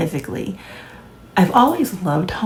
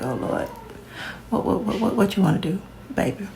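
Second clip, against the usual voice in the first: nervous hubby; 2 semitones higher, 4 dB quieter than usual. Retold or imitated. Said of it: "He's like".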